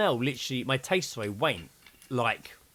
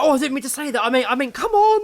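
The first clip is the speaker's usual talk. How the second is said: high, loud, laughing through the words; laughing mimicry; 13 semitones higher, 11 dB louder, faster than usual. Retelling the dog walker's flustered high-voiced apology, laughing. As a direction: giggle while imitating her fluster.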